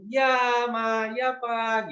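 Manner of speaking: sweet, obliging "Ya, Ma"; polite reply. Shown as a demonstration. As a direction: demo of a polite child answering parents. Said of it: "dengan sopan".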